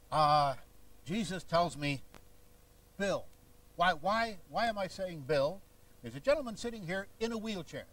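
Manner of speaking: a hint of a televangelist working the aisle; W V Grant imitation. Faith healer calling out to a man in the crowd, lightly mimicked preacher voice. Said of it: "a short imitation of a man named W V Grant".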